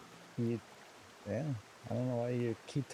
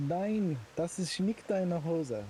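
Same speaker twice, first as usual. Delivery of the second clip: fake German; 2 semitones higher, slower than usual. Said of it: "others are quite fluent in fake German".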